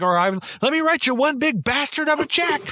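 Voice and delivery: prim lady saying a filthy order; host mocking Annie buying chicken feed, squeaky prim voice. Mocking store clerk reply.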